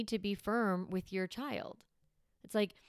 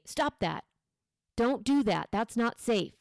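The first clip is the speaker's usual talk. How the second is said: firm and louder, each command set apart; 3 semitones higher, 5 dB louder than usual. Shown as a demonstration. Parent stopping a child hurting a sibling, firm louder commands. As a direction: say it like a calm boss who means it. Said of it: "using that firm voice".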